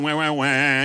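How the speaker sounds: wah chant that steps down; whine going down. Shown as a demonstration. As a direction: let each wah sink a little. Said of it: "You guys go down".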